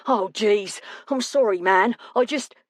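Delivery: flustered apology. Acted. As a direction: apologise in mild dismay and break off. Pierce realises he punched his friend.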